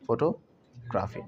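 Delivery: slow फोटोग्राफी split as photo, graafi; old wrong way. Shown as a demonstration. Teacher showing the old habit, split pronunciation. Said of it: "it's not photography".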